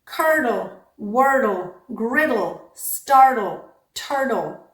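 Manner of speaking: "startle, turtle" with t tapped like d; flap before syllabic l. Shown as a demonstration. Teacher listing rule examples, "startle, turtle" with flapped t. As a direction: tap the middle of each word, "Curdle" to "turtle", into an unstressed uhl. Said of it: "it also becomes a flap".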